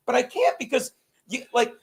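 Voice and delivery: ordinary talk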